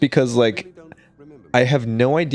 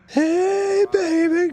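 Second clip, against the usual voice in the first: much higher, hammed-up movie hero yell; Ash impression; much slower than usual. Quoting Evil Dead's Ash, hammed-up hero cry. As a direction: toss it off like a cocky horror hero. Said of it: "from Evil Dead?".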